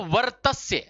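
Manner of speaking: वर्तस्य said clearly, with the र heard after the व; model pronunciation. Shown as a demonstration. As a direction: demonstrate वर्तस्य the way a teacher models a word. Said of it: "बोला कैसे गया इसको?".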